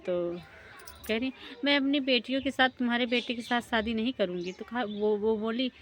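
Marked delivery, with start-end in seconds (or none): 1.6-4.5 angry refusal. Acted. Mother refuses angrily.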